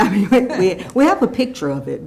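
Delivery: speaking through a laugh; nervous laugh while talking. Real, not acted. Laughs after council laugh.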